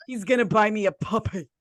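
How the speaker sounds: put-on mob-wife accent, matter-of-fact quote; Big Ange impression. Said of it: "Big Ange says".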